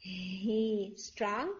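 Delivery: slow ہی with a strong breath; strong breathy ha. Shown as a demonstration. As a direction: push air hard on ہی. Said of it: "پہلے اس کو بولے".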